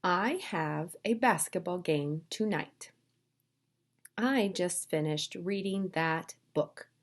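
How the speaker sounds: slow, deliberate model reading; slow read-along. Shown as a demonstration. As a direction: read slowly for learners to follow. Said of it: "read these sentences with me".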